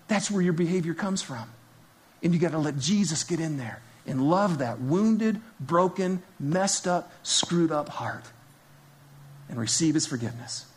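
ordinary talk, nothing marked

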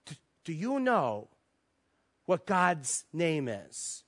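slow, grave question with long pauses; imitating a man's earnest gravity; very serious. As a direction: pose it solemnly, word by word. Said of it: "he looks at me very seriously".

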